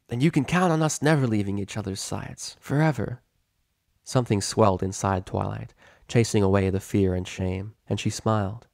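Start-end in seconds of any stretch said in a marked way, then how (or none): 0.1-3.2 smirking tomboy. Acted.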